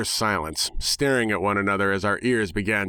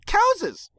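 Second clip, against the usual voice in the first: much higher cry of the word Cowses; gleeful pony shout; 3 dB louder than usual. Acted. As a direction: squeal it like a delighted cartoon pony. Pinkie shouts word again.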